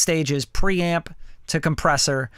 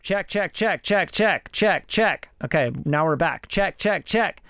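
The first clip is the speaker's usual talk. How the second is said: mic check; slower than usual. Shown as a demonstration. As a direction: lift the check up in pitch. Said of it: "So let's go up".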